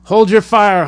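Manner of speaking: captain's scream. Acted. Captain screaming at the Marines to stop firing. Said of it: "the captain screamed".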